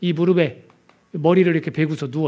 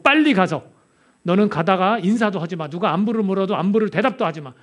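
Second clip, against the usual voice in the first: urgent, higher orders; urgent command; 4 semitones higher than usual. Acted. Elisha ordering Gehazi to run ahead, urgent and higher. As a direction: send him off in a hurry.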